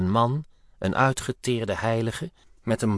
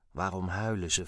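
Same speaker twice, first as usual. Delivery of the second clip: hushed, much softer voice; near whisper; 8 dB quieter than usual. A narrator's reading. Officer asks his colleague about the weeping figures, near whisper. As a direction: drop to a hushed murmur. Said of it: "fluisterde Toth".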